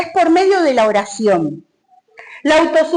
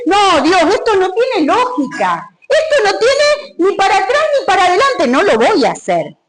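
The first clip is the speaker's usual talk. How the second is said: arguing protest; 5 semitones higher than usual. Retold or imitated. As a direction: push back against God. Creyente discute con Dios. (protesta terca y fuerte del creyente contra Dios)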